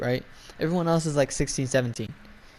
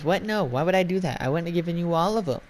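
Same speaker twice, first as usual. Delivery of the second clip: higher-pitched imitation of an indignant customer; mock indignation; 4 semitones higher than usual. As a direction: retell her offended protest in a raised pitch. Retold customer's indignant quarrel reply.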